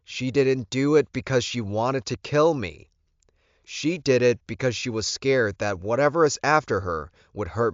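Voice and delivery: earnest but controlled defence; defensive Alpha. Acted. Alpha defending his mate to Lorenzo, earnest and pressed.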